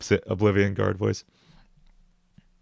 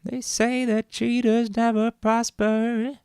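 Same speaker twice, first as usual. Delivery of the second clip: villain voice; 12 semitones higher, much slower than usual. Acted. Villain voice line for game.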